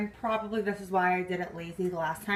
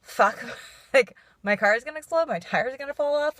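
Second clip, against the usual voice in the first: higher mock-panicked whine with a laugh; mock misery; 4 semitones higher, 3 dB louder than usual. Vlogger mimicking herself sitting and moping over her car, mock miserable. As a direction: play at being miserable, half laughing. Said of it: "be miserable and be like".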